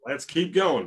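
chuckling through the words; laughing. Real, not acted. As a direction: echo it with a laugh. Laughing echo of cohost.

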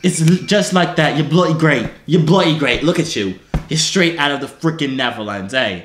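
mock British accent; hammed-up British praise; put-on British. Praising a pupil's attempt, put-on British accent.

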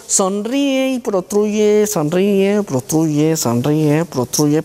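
slow, lightly mocking sing-song command; mock rote drill. Teacher mimicking a clichéd therapist order, slow and mild. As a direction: parody the famous smile-and-protrude cue. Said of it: "esa es otra frase famosa".

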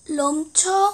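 reading Korean text backwards syllable by syllable; halting, careful backward reading; backwards speech. Shown as a demonstration. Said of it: "거꾸로 읽겠습니다".

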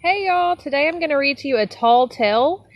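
high, loud and fast; cheerful greeting. Real, not acted. Cheerful read-aloud opening.

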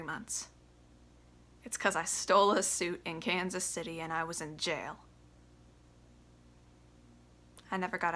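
bitter son confronting father. Acted. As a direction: hold back the anger, simmering. Audition monologue as Biff, quiet start.

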